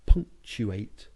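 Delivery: pause, then punch "punctuate"; punctuated word. Shown as a demonstration. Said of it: "The art is to".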